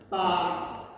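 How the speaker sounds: BA at middle pitch. Shown as a demonstration. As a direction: say BA in the middle of your voice. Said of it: "in the middle of your voice".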